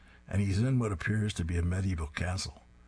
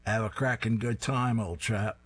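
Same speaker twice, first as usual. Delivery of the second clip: put-on Cockney accent; 3 semitones higher than usual. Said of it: "in a fake Cockney accent".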